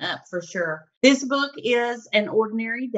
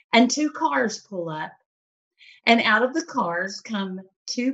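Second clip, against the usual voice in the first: gentle read-aloud voice; story narration. Acted. Reads a picture book aloud.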